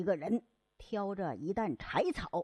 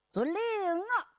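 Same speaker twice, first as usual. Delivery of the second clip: higher, slow sing-song "yes sir"; lightly hammed-up officer; drawn-out acceptance; 10 semitones higher, slower than usual. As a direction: stretch out the acknowledgement.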